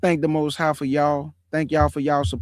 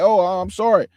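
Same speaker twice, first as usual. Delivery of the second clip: 1 mock scared apology; 4 dB louder than usual. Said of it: "That boy was scared".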